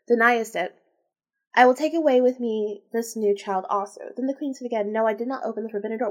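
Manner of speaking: measured read-aloud delivery; story narration. A narrator's reading. Reader telling the tale of the queen, narrating. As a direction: read the old tale out evenly.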